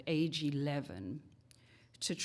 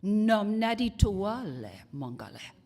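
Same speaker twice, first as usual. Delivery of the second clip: made-up language; 2 semitones higher than usual. Retold or imitated. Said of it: "And then she says".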